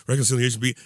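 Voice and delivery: fast mock gasp of shock; mock exasperated. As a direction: imitate a scandalized listener. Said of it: "curling your eyes like".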